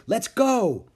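high, loud urging call; girl hurrying her brother. A narrator's reading. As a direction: hurry him along. Annie hurrying Jack.

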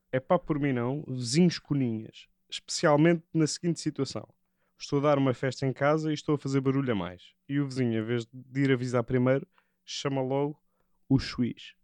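soft, measured read-out of a gripe; reading aloud. Acted. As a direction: read the complaint quietly, phrase by phrase. Reads a written gripe aloud.

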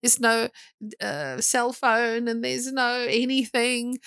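imitating a frantic worrier, fast and breathless; panicked believer. Mocking panicked believer's prayer.

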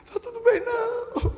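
high, crying refusal; tearful protest. Retold or imitated. Preacher imitating the sister crying that nothing is fine. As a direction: sob out the denial. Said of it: "ela começou a chorar".

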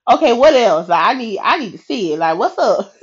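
impatient, joking demand; playful impatience. Retold or imitated. Joking to God about needing to see it, playfully impatient. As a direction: press for an answer, half laughing.

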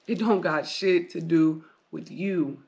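slow deliberate emphasis; slow, heavy repeat. Shown as a demonstration. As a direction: hammer the line home slowly the second time.

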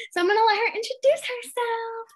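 whispering through giggles; breathy laughing aside; giggly whisper. Real, not acted. Host giggling into introduction.

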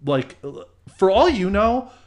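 loud, furious scolding; angry telling-off. Retold or imitated. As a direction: snap at him to back off. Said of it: "one point I flipped out on him".

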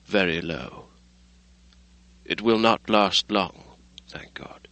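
a broken man, giving up; dreary. Acted. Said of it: "replied the doctor drearily".

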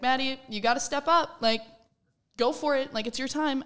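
imitated coach yelling. Coach pushing an injured team's player to step up, mild yell. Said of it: "she kinda yelled at me".

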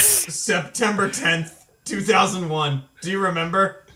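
slow, dragged mock-solemn remembrance. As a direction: draw out the date reverently.

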